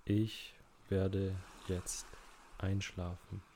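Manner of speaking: unhurried meditation guide with long pauses; measured, calm relaxation-exercise voice; guided relaxation. Acted. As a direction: ease the listener into rest, phrase by phrase.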